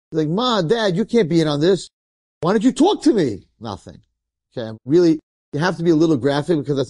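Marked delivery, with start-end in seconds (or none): 0.3-3.5 higher-pitched retold protest to parents; incredulous pleading. Dead boy to parents who cannot hear him, incredulous pleading. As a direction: plead in mild exasperation, voice lifted.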